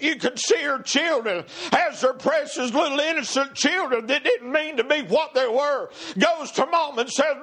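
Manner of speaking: urgent preacher's cadence; driving preaching. Real, not acted. Preacher retelling the children's errand to their mother, urgent and fervent. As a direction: build with rising fervor through the story.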